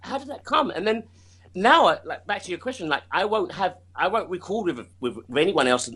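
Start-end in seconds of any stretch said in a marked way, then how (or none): 0.0-0.7 imitating her own excited disbelief; retold excitement. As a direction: act out being thrilled and baffled, pitched well up. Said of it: "I get so excited".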